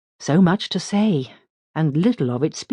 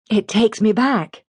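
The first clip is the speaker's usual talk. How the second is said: pleasurably; 7 semitones higher, 4 dB louder than usual. A narrator's reading. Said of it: "says Helen pleasurably".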